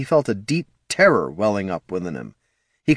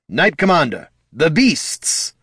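commanding shout; 7 semitones higher than usual. Acted. The Lich orders Tyron.

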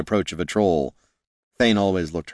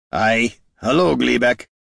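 calling back amused; 5 semitones higher, 3 dB louder, slower than usual. A narrator's reading. Gorm calls back to goblin.

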